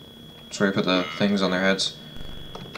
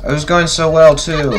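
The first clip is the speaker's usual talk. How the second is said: laughing; 5 semitones higher, 6 dB louder than usual. Real, not acted. Laughing after losing to jumpscare.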